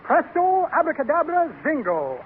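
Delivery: showy rising-then-falling spell; magic incantation. Acted. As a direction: intone it like a stage magician.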